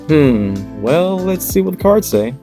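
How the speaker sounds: high, loud mystical reader voice; fortune teller. Acted. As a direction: draw them in like a seer. Intro over music, second voice.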